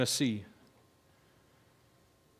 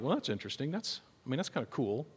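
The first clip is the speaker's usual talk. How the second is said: mildly unimpressed; 9 dB quieter than usual. Pretend. Imagined unimpressed reaction to message.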